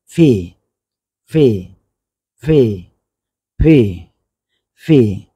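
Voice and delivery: "ফে" released from both lips with a puff; letter sound with lips together. Shown as a demonstration. Teacher drilling lip placement, "ফে" from closed lips. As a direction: press lips together, release "ফে" into a long vowel. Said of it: "দুই ঠোঁটকে আমরা এক জায়গায় করে".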